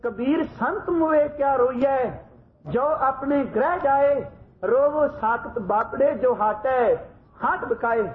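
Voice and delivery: slow, grave scripture recital; ਗੰਭੀਰ ਆਵਾਜ਼ ਵਿੱਚ ਹੌਲੀ ਪਾਠ; solemn recitation. Retold or imitated. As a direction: intone the verse slowly and gravely. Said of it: "ਗੰਭੀਰ ਆਵਾਜ਼ ਵਿੱਚ ਪੜ੍ਹਦੇ ਨੇ".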